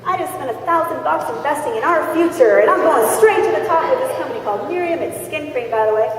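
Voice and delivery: a recruit bubbling over about her new business; excited wife. Retold or imitated. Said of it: "they're like".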